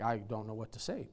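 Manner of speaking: low, very soft mock mumble; hushed, deflated imitation of someone stumped; imitating stumped complainers. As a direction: act lost for words, voice dropped right down. Voicing complainers left speechless.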